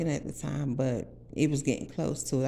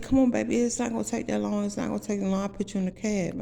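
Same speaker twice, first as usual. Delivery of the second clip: sweet-talking; 5 semitones higher, faster than usual. Retold or imitated. Tony sweet-talking her.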